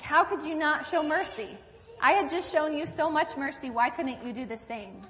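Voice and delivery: mildly indignant king, pitched a little high; indignant rebuke. Acted. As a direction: scold in mock reproach, voice lifting then settling. King rebukes servant in retold parable.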